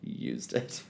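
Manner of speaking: breathless whispered echo. Real, not acted. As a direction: whisper it in disbelief. Incredulous echo, laughing.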